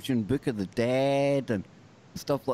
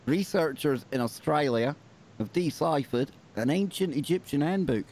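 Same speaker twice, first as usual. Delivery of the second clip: Australian accent; 3 semitones higher than usual. Shown as a demonstration. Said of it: "I'm not gonna keep doing the Australian accent".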